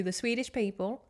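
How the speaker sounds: exaggerated mock Swedish accent; a drag performer. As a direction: put on a comic Swedish accent. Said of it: "what does a drag performer do".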